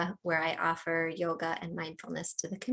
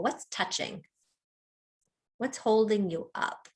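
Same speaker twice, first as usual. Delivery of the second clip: unhurried meditation guide with long pauses; calm mindfulness-teacher delivery, phrase by phrase; guided body scan. Real, not acted. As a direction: lead them gently through a body scan, leaving space between phrases.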